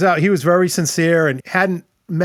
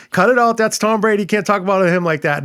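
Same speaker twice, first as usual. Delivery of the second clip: higher and louder, playfully telling him off; mock scolding; 5 semitones higher, 3 dB louder than usual. Telling Scott to stop knocking Tom Brady: mock scolding, higher and louder. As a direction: snap at a buddy to cut it out, half joking.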